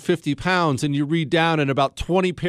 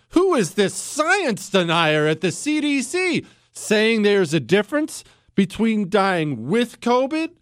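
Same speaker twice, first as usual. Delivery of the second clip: sarcastic mock outrage; 3 semitones higher than usual.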